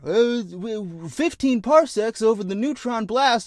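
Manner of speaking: the little fuzzball pilot reeling off nonsense jargon; high, slow creature voice spouting sci-fi jargon; alien pilot speak. Acted. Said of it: "it says dumb Star Wars speak".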